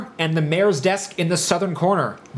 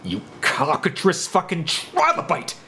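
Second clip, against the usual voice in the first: slow, strained curse through clenched teeth; shouting through gritted teeth. Acted. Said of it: "his assailant shouts through gritted teeth".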